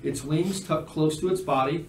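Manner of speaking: measured game master description; scene narration. Acted. Game master describing a dragon statue, measured narration.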